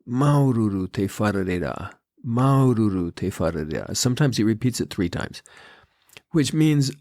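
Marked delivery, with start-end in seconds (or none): 0.1-1.9 a hint of a humble old man, slightly lower, "Maururu" leaned on; imitating the temple greeter, sincere and understated; old man's heartfelt greeting. Older man greets me at the temple, lightly voiced and sincere. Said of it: "and says". 2.2-4.0 a hint of a humble old man, slightly lower, rising on "maururu"; old man's heartfelt greeting, repeated. He repeats it to me, mild sincere rise. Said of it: "and says".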